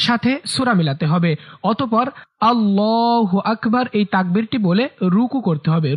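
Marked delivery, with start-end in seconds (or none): 2.5-3.9 long held vowel in the takbir; takbir recitation. Shown as a demonstration. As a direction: briefly slip into measured recitation. Demonstrates takbir within explanation.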